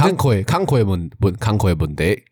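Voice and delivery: Taiwanese accent. Shown as a demonstration. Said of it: "用台语讲个大概意思".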